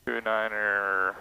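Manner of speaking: very soft, drawn-out reading of digits; absent-minded, hushed self-talk; talking to oneself. Real, not acted. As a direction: murmur the numbers while dialing them in. Setting altimeter, talking to oneself.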